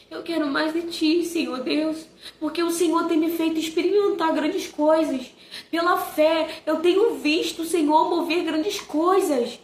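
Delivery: earnest, devout prayer voice. Retold or imitated. Mother praying during devotional about her son, earnest prayer.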